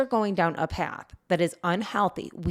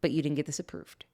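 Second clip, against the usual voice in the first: calm and loving; 3 semitones lower, 4 dB quieter than usual. Retold or imitated. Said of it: "We very calmly were like".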